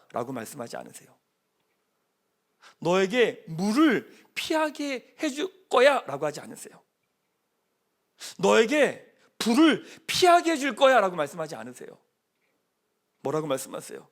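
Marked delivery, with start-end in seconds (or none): 2.8-11.0 lightly voiced, higher, slow, drawn-out false promise; mock promise. Pastor mocking the promise that God never makes.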